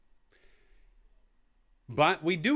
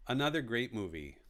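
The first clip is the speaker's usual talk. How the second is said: lower, softer repeat; soft echo; 5 semitones lower, 5 dB quieter than usual. Shown as a demonstration. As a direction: echo it to yourself quietly. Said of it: "repeats phrase softer".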